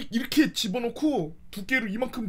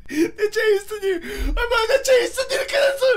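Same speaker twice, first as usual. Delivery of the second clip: high, loud laughing sob; mock crying; 12 semitones higher, 7 dB louder than usual. Boy showing grandma, high laughing mock sob.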